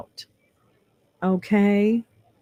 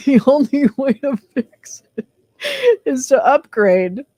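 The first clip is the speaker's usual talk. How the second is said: mock grand pronouncement; 6 semitones higher, 5 dB louder than usual. Mock-grand quote of the text.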